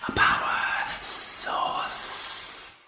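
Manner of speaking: slow, soft alien hiss of wonder; hissed wonderingly. A narrator's reading. Ice Warrior realising what revived him, slow wondering hiss. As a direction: breathe it out in awe. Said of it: "he hissed wonderingly".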